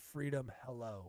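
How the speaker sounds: bitchy little tone. Mimicking another speaker's line, imitating a bitchy tone. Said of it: "it does sound like a bitch when you say".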